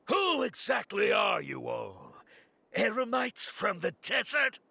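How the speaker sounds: slow, shouted demand; slow, hard confrontation; angry demand. Acted. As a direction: bark the question at the strangers. Ambushed guard confronting strangers.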